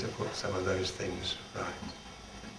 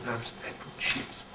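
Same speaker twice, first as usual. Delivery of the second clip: put-on French accent; 9 dB quieter, slower than usual. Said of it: "with a beautiful accent".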